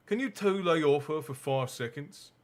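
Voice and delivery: a touch of understated annoyance; lightly voiced irritated boy; mild anger. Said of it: "saying angrily".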